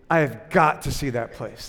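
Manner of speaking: a light touch of a deep Irish monk voice, slow; hint of Cuthbert. Irish monk eager to visit the megachurch, lightly voiced, slow. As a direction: lean slowly into the monk's eager line. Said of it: "This deep, sonorous voice with that Irish accent".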